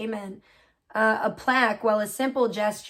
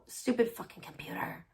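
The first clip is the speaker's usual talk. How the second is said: muttered curse; 9 dB quieter than usual. Real, not acted. Cursing the computer under breath.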